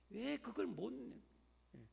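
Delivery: ordinary talk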